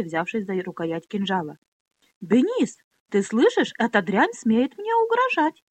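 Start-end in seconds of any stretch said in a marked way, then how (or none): 2.2-5.6 loud, high, outraged squeal; shrill squeal. Acted. Pona squeals to Benis about the threat, loud and high. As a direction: shriek for her escort's help. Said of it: "взвизгнула Пони".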